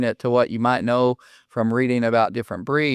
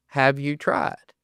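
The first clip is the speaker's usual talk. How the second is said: slow pointed question; 3 dB quieter, slower than usual. Retold or imitated. David to doubtful owner, slow pointed question. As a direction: ask it slowly and dryly. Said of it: "I look at 'em and I go".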